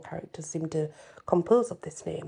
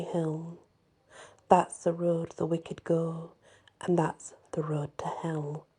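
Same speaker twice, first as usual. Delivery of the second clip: ballad recital. Acted. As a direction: tell it like a fireside ballad.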